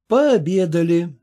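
ordinary delivery

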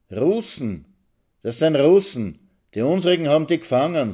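put-on excited boy's shout. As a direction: blurt it out at the window. Boy shouts at passing prisoners.

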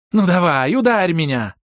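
high loud goading; high taunting girl; provoking dare. A narrator's reading. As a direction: goad him to hit her. Рёка provoking a blow.

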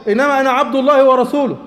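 a touch of anger, firm; mild angry tone. Retold or imitated. The Prophet rebuking the crowd, mildly angry. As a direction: say it with restrained displeasure. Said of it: "بغضب كده".

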